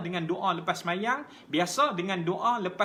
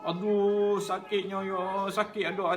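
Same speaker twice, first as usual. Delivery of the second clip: mock groaning aduh, lightly acted; a hint of a sick person whining about the pain; complaining moan; slower than usual. Preacher imitating a sick person complaining, mild mock moan. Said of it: "menangis merungut".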